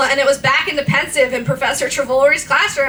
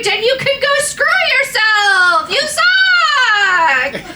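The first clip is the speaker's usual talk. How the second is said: high, laughing jeer; mock the readers through laughter; laughing insult; 11 semitones higher, 3 dB louder than usual. Reader jeering at readers while laughing. Reading the rude author's note.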